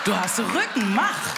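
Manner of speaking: rufend; laut und direkt ins Publikum; lauter Zuruf. Real, not acted. (Zuruf an einen Zuschauer, laut)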